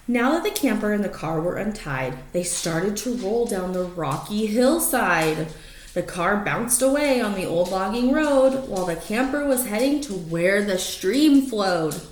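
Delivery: lively rhyming read-aloud; story narration. Acted. Reading a rhyming picture book to the dogs, lively storytelling. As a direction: read it like a bedtime picture book, bouncing the rhymes.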